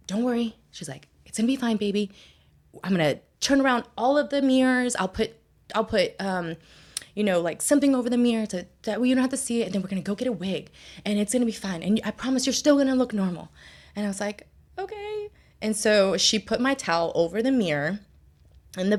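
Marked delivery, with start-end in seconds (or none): 0.1-0.6 high-pitched comforting; imitated reassuring mom. Mom comforting her bald daughter, imitated reassurance. 1.3-13.5 high, hurried comforting; imitated reassuring mom. Mom promising to cover mirrors, imitated reassurance. 14.8-15.3 tiny, very high, soft reply; meek agreement. Retold or imitated. Daughter accepting mom's promise, imitated meek agreement. Child answers reassuring mother.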